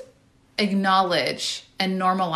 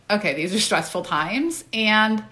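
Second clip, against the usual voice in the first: self-grace; 2 semitones lower, slower than usual. Retold or imitated. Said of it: "gave myself a lot of grace".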